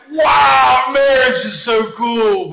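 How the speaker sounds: loud awe, drawn out at the end; mock wowed. Preacher playing an onlooker at a roller coaster, mock wowed. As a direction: gush like an impressed onlooker. Voices someone admiring the coaster.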